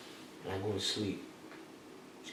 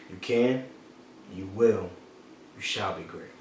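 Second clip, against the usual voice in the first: quiet; 6 semitones lower, 10 dB quieter than usual. Shown as a demonstration. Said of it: "say that one more time".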